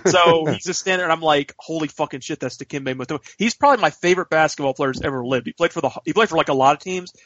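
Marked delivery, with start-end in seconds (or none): 1.6-3.2 retold awe, kept under the voice; softly amazed at spotting a hero; hushed starstruck awe. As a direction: act out a quiet, starstruck aside. Amazed at spotting his basketball hero.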